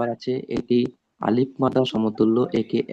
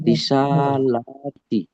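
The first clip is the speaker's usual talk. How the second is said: slow reading; 2 semitones higher, much slower than usual. Shown as a demonstration. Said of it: "যেমন?".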